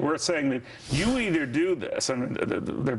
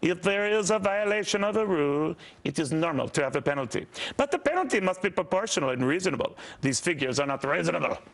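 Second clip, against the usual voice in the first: put-on French accent. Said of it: "I want to use my French accent".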